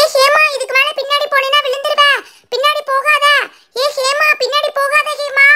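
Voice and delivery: stern shout of don't step back; warning call. Acted. Calling to Hema so she won't fall, warning.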